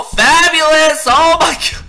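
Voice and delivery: hammed-up horrified outcry; mock panic. Player sees helmet and Timmy lost, panicked outcry. Losing helmet, companion hurt in game.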